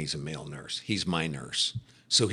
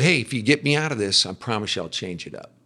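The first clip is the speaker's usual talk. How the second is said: pleading prayer; 4 semitones higher, 5 dB louder, faster than usual. Retold or imitated. Retold desperate prayer while injured.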